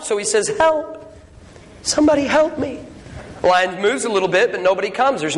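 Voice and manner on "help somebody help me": mock call for help. Man in gorilla suit calls.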